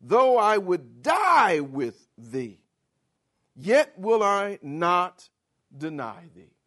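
slow, loud, insistent oath; emphatic vow. Retold or imitated. Peter insisting to Jesus he would die first, slow and loud. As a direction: plant each word, slowly. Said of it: "he emphasizes his point".

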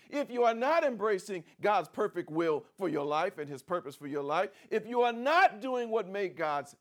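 building preacher's litany. Acted. Preacher warning the church, building in force.

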